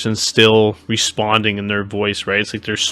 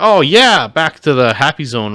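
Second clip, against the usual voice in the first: happy mock coo; 5 semitones higher than usual. Death Guard drawn back into aura.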